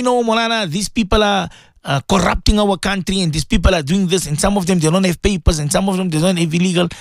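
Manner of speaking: imagined objecting listener. Retold or imitated. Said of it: "You can tell me".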